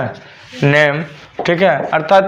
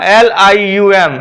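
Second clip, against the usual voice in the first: letter by letter; 3 dB louder, slower than usual. Shown as a demonstration. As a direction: slowly spell एल आई यू एम. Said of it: "मैं बोला था ना". (एक-एक अक्षर धीरे बोलते हुए)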